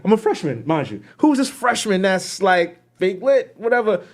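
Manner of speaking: a guy scoffing at the freshman DJ; imitating a rival. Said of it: "the guy, it was like".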